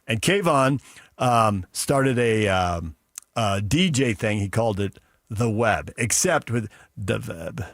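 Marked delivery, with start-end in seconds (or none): 4.4-7.6 put-on light Iranian accent on the Web, w as v; lightly imitating an Iranian accent. Imitating the classmate's Iranian DJ accent. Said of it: "he had a heavy accent".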